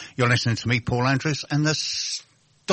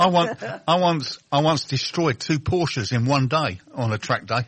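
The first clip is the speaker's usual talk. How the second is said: laughing; 3 semitones higher, slower than usual. Real, not acted. Laughs while telling a story.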